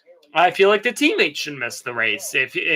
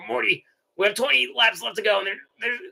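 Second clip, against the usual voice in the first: lightly voiced stammering cartoon grandpa; hint of a drunk grandpa, halting between phrases; Rick; 4 semitones higher than usual. Plays Rick commenting on the race.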